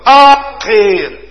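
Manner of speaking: high, loud plea; cry to heaven. Pretend. A sinner crying up to the Lord, high and loud. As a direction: cry upward for help. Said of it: "Dus schreeuw naar boven".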